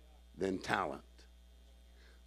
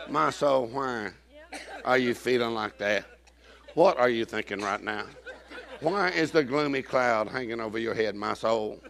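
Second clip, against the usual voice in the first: David; 2 semitones lower, 3 dB quieter than usual. Acted. David questions his soul, paraphrased.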